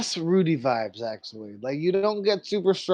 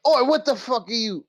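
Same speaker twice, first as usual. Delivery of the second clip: higher, louder startled "Oi"; startled shout; 8 semitones higher, 4 dB louder than usual. Acted. Man surprised by strangers at his back door, calling out loud and high. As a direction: bark at intruders behind you.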